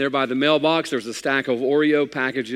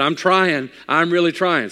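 straining; 5 semitones higher, 6 dB louder than usual. Retold or imitated. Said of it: "I said".

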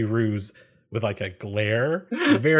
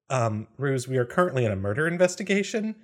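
startled. Acted. Flustered reply to a dinner invitation mid-investigation, startled. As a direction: answer like a deer in the headlights. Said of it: "like a deer in the headlights".

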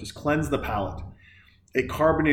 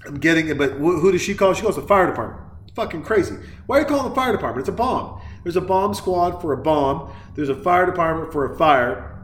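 exasperated rant; 4 semitones higher than usual. Real, not acted. Ranting at the film's logic.

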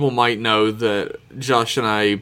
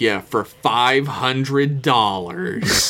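drawn-out quote; much slower than usual. Retold or imitated. Acted reply naming her price.

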